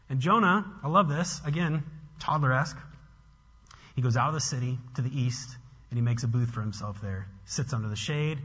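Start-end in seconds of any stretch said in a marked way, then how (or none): none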